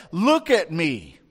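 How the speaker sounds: firm, drawn-out call to grab his attention; attention-getting call. Retold or imitated. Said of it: "they have to get his attention".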